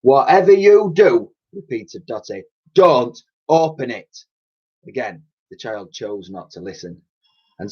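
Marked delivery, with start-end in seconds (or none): 0.0-4.2 put-on high, loud cockney old dear; old cleaning lady voice. A narrator's reading. Old cleaner warning the girl, fussy cockney voice.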